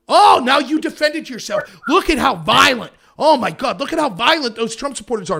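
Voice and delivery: loud sarcastic mock dismay; hammed-up faux horror; mock outrage. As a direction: sneer it like a shocked pundit. Mocking media reaction to self-defence.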